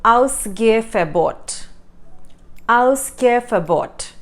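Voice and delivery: "Ausgehverbot" slowly, syllable by syllable; word of the episode. Shown as a demonstration. Teacher gives curfew in German, slow careful demonstration. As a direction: spell out "Ausgehverbot" by ear, slow and clear. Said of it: "So curfew in German is".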